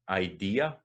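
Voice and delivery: idea with a clear opening "eye"; full I at start. Shown as a demonstration. Teacher showing the I sound, idea with clear first vowel. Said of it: "that's the I at the start".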